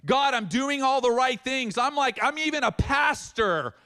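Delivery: mock outrage, playing his past self; mock indignant protest. Pastor protesting to God in the trauma unit, mock indignant shout. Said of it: "one of the funniest thoughts that I had".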